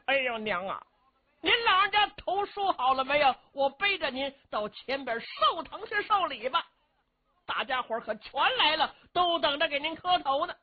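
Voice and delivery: high, loud, rough-and-ready hero greeting his mother; a boisterous, high-pitched bumpkin hero; Cheng Yaojin's voice. Acted. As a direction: pitch it way up like a brash big-hearted fellow.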